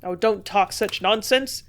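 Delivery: impatient. A narrator's reading. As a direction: snap her out of it impatiently. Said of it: "he said impatiently".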